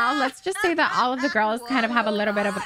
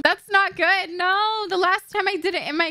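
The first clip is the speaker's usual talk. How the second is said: high, anxious protest; rattled alarm; 8 semitones higher than usual. Real, not acted. Still rattled by near death.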